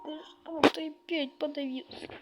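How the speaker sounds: fighting a choke mid-sentence; choking on a drink. Real, not acted. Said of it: "Ой, щас я вернусь".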